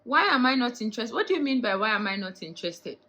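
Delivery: loud, high incredulous outburst; indignant. Retold or imitated. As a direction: throw the question back in loud disbelief. Indignant reaction to his retold question.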